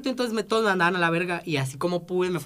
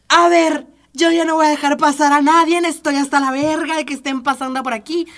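louder, higher mock tirade; hostile girl at door; 4 semitones higher, 4 dB louder than usual. Girl at the door refuses to let them pass, hostile and louder. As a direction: snap at him like a bouncer blocking the door. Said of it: "la tipa se voltea así bien perra".

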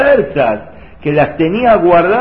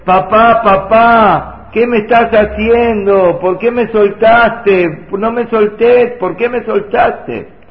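loud, higher, desperate cries of papá; terrified child's scream; 5 semitones higher, 3 dB louder, slower than usual. Acted. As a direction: scream for her father as he lets go. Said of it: "empezó a gritarle".

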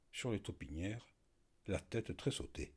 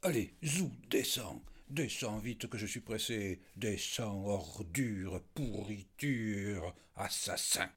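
hoarse and panting; slower than usual. Acted. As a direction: gasp out the insults, spoiling for a fight. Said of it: "d'une voix rauque et haletante". (voix rauque et haletante)

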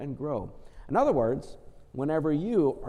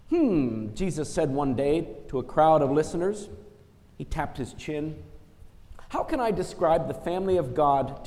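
put-on storytelling to children; story reading. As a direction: read it like a picture book to kids. Reads Bible story to children.

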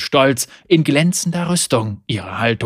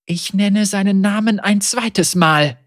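raised, higher voice; ritual incantation; 7 semitones higher, 4 dB louder than usual. Acted. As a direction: chant it with fury. Ritual naming of the traitor.

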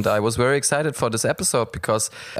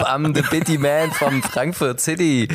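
lightly voiced Frankfurt biddy; hammed-up street hustler greeting; biddy man act. Podcast host introduces himself as a Frankfurt biddy, lightly acted.

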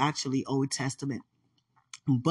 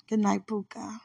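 soft unvoiced good night; whispered goodnight; 4 semitones higher, 4 dB quieter than usual. Real, not acted. Saying good night to Puka in a whisper.

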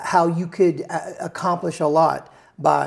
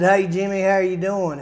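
a light take on a friendly songwriter's greeting, a bit higher and louder; imitating David's way of talking; 3 semitones higher, 5 dB louder than usual. Greeting the singer the way David talks, lightly imitated. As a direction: mimic his easygoing hello. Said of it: "he talks like this".

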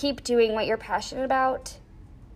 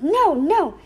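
higher, louder sharp "No" at the dog; retold yell at dog; 6 semitones higher, 5 dB louder than usual. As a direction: call the dog off the broken glass. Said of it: "I'm yelling at him".

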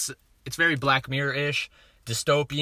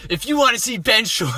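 laughing; 9 semitones higher, 8 dB louder than usual. Real, not acted. Laughing at a name flub.

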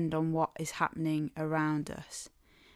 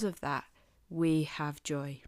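whispered; 2 semitones lower than usual. Acted. Sermon climax whispered.

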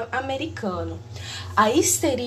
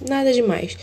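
clipped, blown-out audio; mic overloaded and distorting; clipping distorted mic. Real, not acted. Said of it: "pelo áudio estourado". (áudio estourado)

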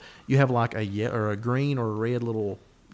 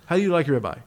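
put-on Brazilian accent; 4 semitones higher, faster than usual. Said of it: "killer Brazilian accent".

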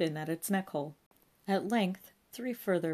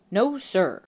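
higher meek reply; chastened constable; 4 semitones higher, 10 dB louder than usual. A narrator's reading. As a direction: answer like a scolded junior.

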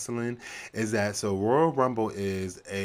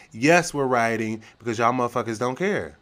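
angry; 4 semitones higher, 7 dB louder than usual. Real, not acted. Angry rant on rioting.

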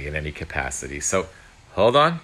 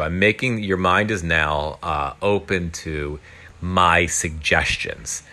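hypnotist voice; slower than usual. Retold or imitated. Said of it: "this guy's got, like, a hypnotist's voice".

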